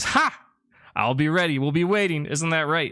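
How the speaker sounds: booming laugh then high cheer; hearty laugh. Acted. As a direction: laugh it off, confident coach. Brawly laughs off threat.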